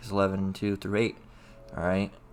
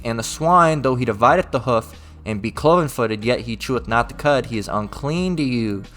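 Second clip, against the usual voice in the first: raised, solemn scripture read; King James recital. Acted. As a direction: read the verse like a preacher. Reads scripture aloud.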